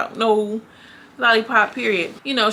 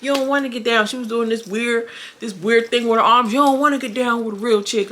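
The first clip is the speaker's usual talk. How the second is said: higher, challenging voice; taunting Lollipop; 4 semitones higher than usual. Retold or imitated. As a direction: dare her to fight, pitched up. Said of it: "Lollipop stands up like".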